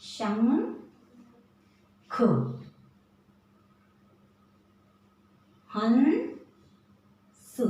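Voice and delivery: शंख, हंस stretched very slowly, nasal ं held long; teacher stretching शंख and हंस for children; drawn-out nasal demo. Shown as a demonstration. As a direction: draw out each word, holding the nasal. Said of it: "इसी तरह".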